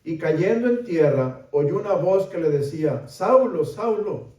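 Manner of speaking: projected, dramatic Bible reading; scripture reading. A narrator's reading. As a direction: read the passage out to the congregation. Reads scripture aloud with raised voice.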